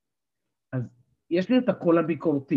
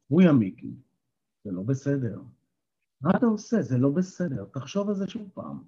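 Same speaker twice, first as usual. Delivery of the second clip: gentle critical voice; 2 semitones lower than usual. Shown as a demonstration. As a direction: say it kindly, inviting thought. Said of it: "מה אם הוא היה אומר לי את זה במקום בקול הזה". (רמז לנזיפה רכה ומזמינה)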